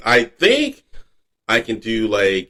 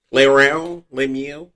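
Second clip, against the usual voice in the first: Pepe Le Pew; 2 semitones higher, slower than usual. Retold or imitated. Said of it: "watching Pepe Le Pew cartoons".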